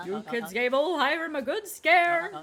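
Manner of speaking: put-on folksy old man voice. Tolliver sweet-talks the kids.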